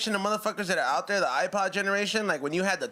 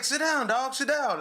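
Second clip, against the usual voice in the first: Tyson's command; 6 semitones higher, slower than usual. Retold or imitated. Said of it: "And that was like".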